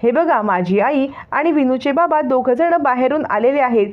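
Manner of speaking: put-on a child calling loudly into the house. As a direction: shout for them to come quickly. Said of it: "तेवढ्याच जोराने ओरडत".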